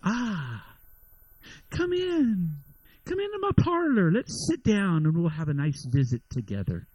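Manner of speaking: a hint of a sly spider luring the fly in; a touch of a spider sweetly inviting the fly. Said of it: "just like the spider said to the fly".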